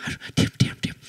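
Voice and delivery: whispered urgent hush; mother hushing her child in church. Retold or imitated. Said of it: "Mamanya bilang". (bisikan ibu menyuruh diam)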